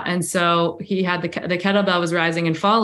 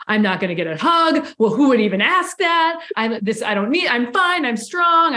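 inner voice; 5 semitones higher than usual. Retold or imitated. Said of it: "was like".

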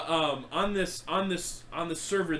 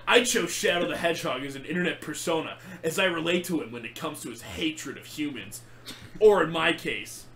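Shadow's voice. Retold or imitated. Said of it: "the rest of the podcast in Shadow's voice".

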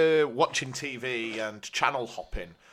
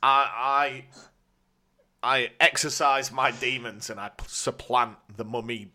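laying a curse. Pretend. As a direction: proclaim it like a mock wizard. Jokingly curses friend with mummy bet.

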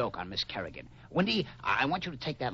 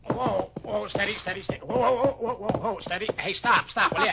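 louder, higher whoas, losing control of the mount; calling to horse; 6 semitones higher, 5 dB louder than usual. Acted. Smith trying to steady his nag, flustered calling. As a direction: plead with the horse to stop, rising alarm.

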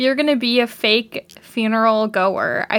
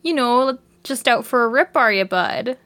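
strong Canadian accent. Shown as a demonstration. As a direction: play up a folksy Canadian accent for a friend. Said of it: "I can put on, like, a very strong Canadian accent".

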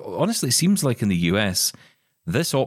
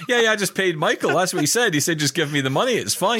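mock innocent; 9 semitones higher than usual. Mock voice of himself, laughing.

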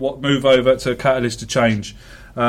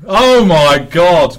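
astonished; 3 semitones higher, 7 dB louder, much slower than usual. Real, not acted. Guest confirms he's not local.

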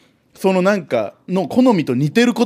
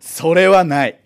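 curt, louder flat refusal; huffy flustered denial; 4 dB louder, slower than usual. Real, not acted. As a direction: shut the idea down firmly. Letter asks about his taste. (むっとした否定)

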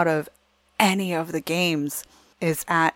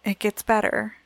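put-on child's voice; 4 semitones higher than usual. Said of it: "Rex looks over and goes".

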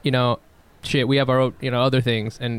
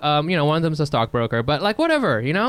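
put-on airy higher-pitched California rich-kid voice; laid-back Californian; 5 semitones higher than usual. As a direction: shrug it off like a chill Californian. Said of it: "but that's how they sound".

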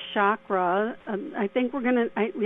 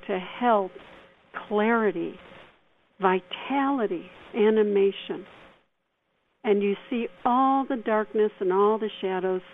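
guided meditation. Acted. Leads a mini meditation.

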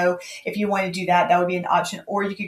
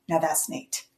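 soft, lower, impressed murmur; hushed awe; 4 semitones lower, 8 dB quieter, slower than usual. Retold or imitated. Imagined reaction to a gift, softly awed. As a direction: breathe it out as if holding the gift. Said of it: "I would be like this".

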